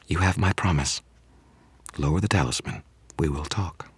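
lightly voiced vampire, quietly giving in; a touch of pain under the calm; harsh yet sultry. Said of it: "voice was still harsh with rage and pain, still sexy".

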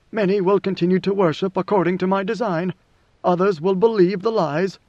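lightly voiced ruler laying out his design; a hint of a commanding emperor; God Emperor, measured. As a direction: pronounce it like a ruler decreeing.

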